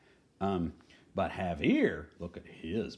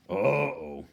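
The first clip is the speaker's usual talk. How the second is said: uh-oh; 8 dB louder than usual. Acted. Reader reacts to picture trouble.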